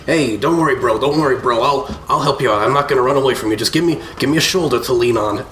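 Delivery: mild slurred drunk act, a touch put on; fake drunk. Fleeple feigning drunkenness to fool the kobold. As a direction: pretend to be drunk and harmless. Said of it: "as if in a drunken stupor and say".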